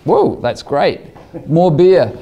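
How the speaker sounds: high, laughing delight; excited whoa. Retold or imitated. Winner at the pub cheering his Nobel, laughing high. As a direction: cheer it out like you just won. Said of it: "So I was".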